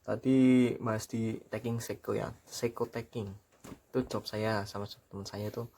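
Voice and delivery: talking round a cigarette; cigarette in mouth. Real, not acted. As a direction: speak with a cigarette between your lips. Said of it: "Tak sambil ngerokok dulu bentar".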